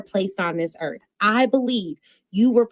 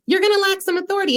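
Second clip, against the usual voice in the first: emphatic repeat; 9 semitones higher, faster than usual. Real, not acted. Repeats the punchline.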